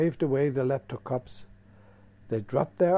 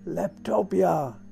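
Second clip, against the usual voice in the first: higher, slow excited shout; screaming; 6 semitones higher, slower than usual. Acted. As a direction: call it out long and high. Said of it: "screamed the three of them".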